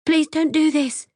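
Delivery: high, loud plea, falling on please; desperate begging cry; pleading shout. Acted. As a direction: shout the plea through the glass.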